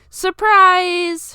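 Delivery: high, loud cheer; surprise shout. Acted. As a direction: burst out in a group cheer. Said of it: "her friends all declared at once".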